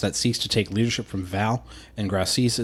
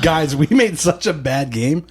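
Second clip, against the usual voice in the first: mock dejected; 3 semitones higher, 4 dB louder than usual. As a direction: whine it like a defeated studio. Mocking devs quitting.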